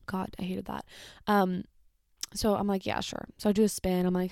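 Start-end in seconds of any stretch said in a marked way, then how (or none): 0.1-0.8 unvoiced whisper; whispered aside. Real, not acted. Remembering the old man, a whispered aside. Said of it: "whispered aside". 2.8-3.3 much lower and softer; low reluctant yeah sure. Retold or imitated. Cashier agreeing to spin, low and grudging. Retold flat reluctant reply.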